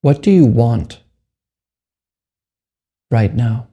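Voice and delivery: measured meditation guide with long pauses; guided meditation. Acted. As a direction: leave long silences between short, unhurried phrases.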